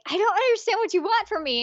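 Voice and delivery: imitating a bewildered girl; clueless girl. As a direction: play her as totally lost. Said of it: "she's like".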